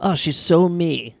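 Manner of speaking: slow, gushing fan voice; drawn-out fan gush; gushing mom. Retold or imitated. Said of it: "A lot of moms".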